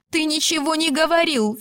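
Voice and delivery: high, breaking voice near tears; wife bursts into tears at her husband; tearful outburst. A narrator's reading. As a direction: blurt it out as tears come. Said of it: "Филиппа залилась слезами".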